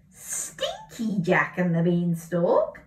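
slow puzzled rising question. Shown as a demonstration. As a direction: wonder aloud at the title, slowly. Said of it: "That's not right, is it?".

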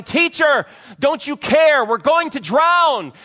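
high panicked yell over the storm; frightened shouting. Acted. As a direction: cry out in terror to be heard. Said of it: "woke him up shouting".

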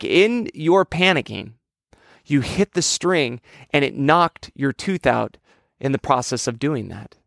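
retold dad, spelling it out slowly and deliberately; measured phrases with pauses, dropping at the end; slow, patient explaining. Dad explains to panicking son how the tooth came out, slow and deliberate.

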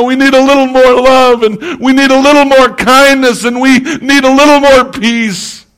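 building fervent plea; rising passion. Real, not acted.

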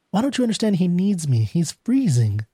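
rushed high question, then slowing; desperate plea. Acted. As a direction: plead with understated desperation. Wife pleads with refusing clerk.

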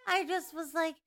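inhaled ditzy-blonde voice; playful alter ego, unlike your own voice; put-on character voice. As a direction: play a dumb blonde, air sucked in. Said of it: "I could talk like this".

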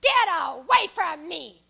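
slow, loud mock rebuff; retold rebuff. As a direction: push the words away, slowly. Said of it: "and she said".

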